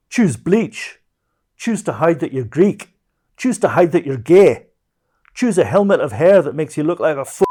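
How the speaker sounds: loud, high ranting Scottish voice; hammed-up Scottish rant, high and loud; Scottish accent. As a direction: rant it like a Glasgow junkie in a broad Scottish accent. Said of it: "Okay, Scottish accent".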